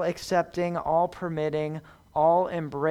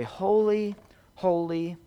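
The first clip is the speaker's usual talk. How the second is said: fading to a whisper; 4 semitones lower, 5 dB quieter than usual. Shown as a demonstration. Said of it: "repeats the verse, fading".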